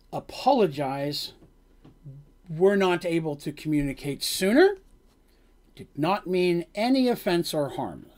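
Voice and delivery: slow, halting foreign guard; lightly voiced guard struggling with words; broken common speech. Guard apologizing to Dandy in broken common, slowly. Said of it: "the way he's talking, it's very broken".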